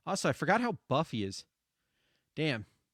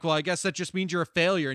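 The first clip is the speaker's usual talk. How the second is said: cold put-down; 5 dB louder, faster than usual. Retold or imitated. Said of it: "she'll just walk up and be like".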